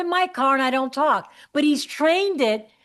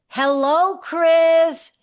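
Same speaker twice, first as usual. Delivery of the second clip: parrot voice; 4 semitones higher, 4 dB louder, much slower than usual. Retold or imitated. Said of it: "He goes".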